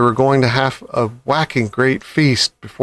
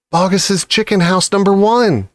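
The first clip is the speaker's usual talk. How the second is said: spluttered; 6 semitones higher than usual. A narrator's reading. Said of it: "spluttered the small fox".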